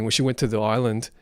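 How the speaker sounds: ordinary talk, nothing marked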